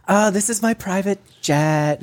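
affected luxury-tour voice; mock rich influencer. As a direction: drawl it like a spoiled influencer. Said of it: "And she's like".

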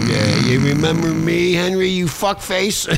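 lightly voiced mocking caller; prank caller. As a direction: needle him like an old buddy with a grudge. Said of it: "He goes".

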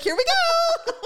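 high, loud squeal through laughter; hammed-up bracing for the worst; mock dread, laughing. Acting out start of exam, laughing.

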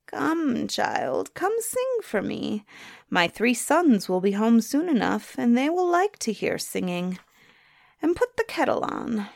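put-on coaxing old crone, voice lifted; a hint of a thin old woman's call; old hag. Old hag asks for song.

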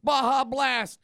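Baja Blast yelled high and loud; mock triumphant soda call; announcer-like shout. Shown as a demonstration. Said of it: "He didn't smack it and go".

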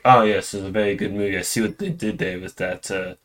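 hammed-up snooty baby critic; mock baby critic. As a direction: pretend the baby reviews the film snobbishly. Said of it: "and be like".

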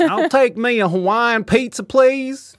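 hammed-up French diner ordering; a lightly done French accent; bad French accent. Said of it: "Oh, I'm doing a French accent".

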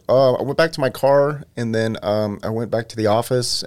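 high, eager rambling voice; lightly voiced dull witness; mock rambling witness. Mocking a boring retold answer.

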